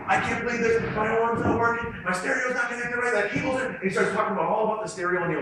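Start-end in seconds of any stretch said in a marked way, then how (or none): 0.1-3.7 mild mock yell, higher pitch; retold screaming. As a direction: imitate an irate caller without full volume. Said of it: "Screaming into the phone and saying".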